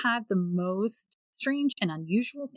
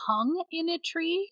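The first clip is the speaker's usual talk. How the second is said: high, slow, incredulous echo; shocked question; 9 semitones higher, slower than usual. Real, not acted. Listener echoing the storyteller's reveal, shocked. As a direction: repeat it in disbelief, pitched way up.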